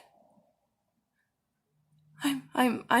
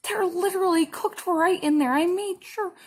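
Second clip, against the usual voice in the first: tag; 8 semitones higher than usual. Retold or imitated. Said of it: "I was crying".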